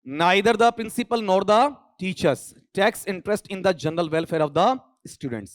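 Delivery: slow, careful exam-sentence read. Shown as a demonstration. Teacher reading the exam question slowly to the class. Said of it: "reading the exam sentence".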